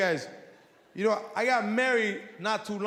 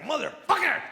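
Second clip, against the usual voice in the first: higher-pitched angry cry of frustration; boy at Little League after striking out, angry; kid's frustrated outburst; 6 semitones higher than usual. Retold or imitated. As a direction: kid swearing after striking out. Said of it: "he strikes out, and he's like".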